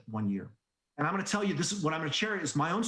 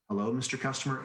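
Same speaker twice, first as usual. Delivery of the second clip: Joey voice; 3 semitones lower, faster than usual. Retold or imitated. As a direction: read it like a boring, careful caller. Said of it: "in your Joey voice".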